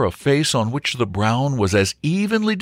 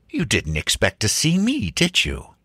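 gruff baronet. Acted. Angry baronet confronts Wilfred.

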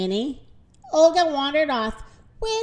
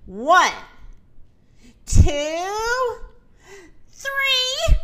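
slow count climbing ever higher; suspenseful count; 6 semitones higher, 4 dB louder, much slower than usual. A narrator's reading. Minnie about to open the barn doors, counting suspensefully. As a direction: raise each number a step, pausing between.

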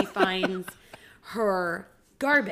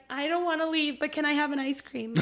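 imitating her daughter; 7 semitones higher than usual. Mom quoting her young daughter.

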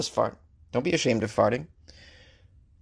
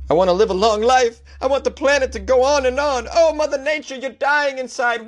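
mock panic; 11 semitones higher than usual. Mock alarmist panic over farts.

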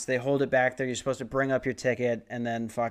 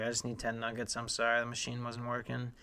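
stressed worker; 11 dB quieter than usual. Retold or imitated. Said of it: "He's under so much pressure".

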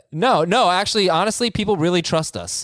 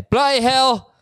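high British exclamation; mock British accent; 8 semitones higher, slower than usual. Host ruling on the trade, hammed-up British outburst. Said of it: "I just heard all those British accents".

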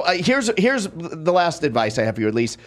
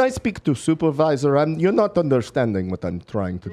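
put-on Russian accent, insisting; stubborn caller in a Russian accent; fake Russian accent. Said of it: "What part of Russia was that accent".

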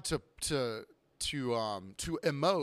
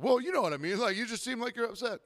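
higher-pitched, flustered imitation; awkward patron explaining himself, pitched up; mock uneasy customer; 8 semitones higher than usual. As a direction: mimic someone backpedaling under a stare. Mimics customer uneasy under silent stare.

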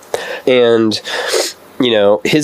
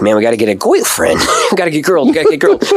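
mock Cagney accent climbing higher and higher; 4 semitones higher, faster than usual. Girl-obsessed seventh grader pleading, imitated Cagney accent. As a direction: repeat it like an obsessed kid with a Cagney twang. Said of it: "his whole thing is like".

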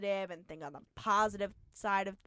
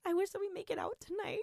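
laughing wish; 9 semitones higher, 5 dB quieter, faster than usual. Real, not acted.

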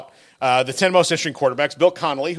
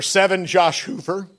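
voice break; 3 semitones higher than usual. Real, not acted. Naming a quarterback on the podcast, voice cracking on "Hoover". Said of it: "my voice broke when I said that".

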